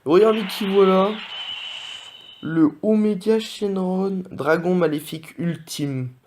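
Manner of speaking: high, loud, drawn-out presenter voice on the monster's name; grand reveal of the ultimate evil dragon; mock announcer hype. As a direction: announce the boss like a TV host. Hyping a rare pull announcer-style.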